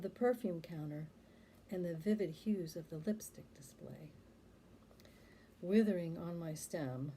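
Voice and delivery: measured poem reading with pauses between phrases; poetry recitation. Acted. Poet recalls a childhood store scene, measured poetry recitation. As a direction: read it out deliberately, line by line.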